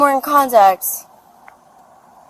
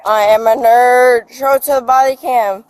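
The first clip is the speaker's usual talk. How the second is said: loud, slurred mocking chant; 4 dB louder than usual. Real, not acted. Drunk taunting the body cam.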